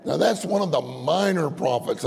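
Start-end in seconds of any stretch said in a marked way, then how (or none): 0.8-1.5 "minor" stressed above the words around it. Real, not acted. Preacher points out which prophet it was, stressing "minor". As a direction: lean firmly on the word "minor". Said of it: "I emphasize minor".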